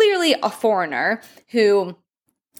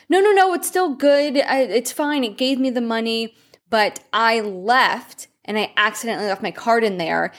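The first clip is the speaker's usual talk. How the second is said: disappointed. Retold or imitated. Tourist telling a stranger his card was eaten, disappointed. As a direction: sigh it out, let down. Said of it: "just looked so disappointed".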